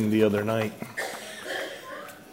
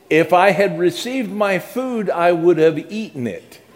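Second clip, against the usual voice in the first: dry sarcasm; 6 semitones higher, 3 dB louder than usual. Retold or imitated. Sarcastic reply to clerk.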